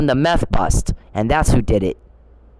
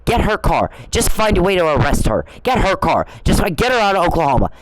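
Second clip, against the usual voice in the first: imitating David whining to the cops; mock whining; 5 semitones higher than usual. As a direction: parody a petty complaint to the police. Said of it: "complaining and whining".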